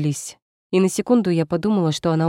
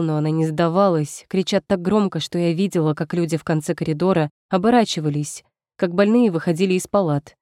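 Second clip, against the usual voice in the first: plain reading voice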